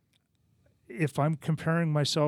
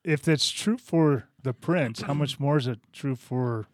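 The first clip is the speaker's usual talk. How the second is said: warm questioning rabbi; 5 dB louder than usual. Acted. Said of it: "My best rabbi impression".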